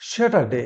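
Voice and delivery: স্যাটারডে with "sya" to open it; corrected Saturday. Shown as a demonstration. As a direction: model স্যাটারডে, first vowel as in "sat". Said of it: "কি বলি?". (স্যাটারডে-র সঠিক উচ্চারণ, "স্যা" দিয়ে)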